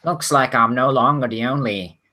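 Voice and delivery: lightly nasal non-player character voice. Acted. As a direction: put a slightly nasal edge on it. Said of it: "in a fairly, uh, nasal tone of, uh, tone of voice".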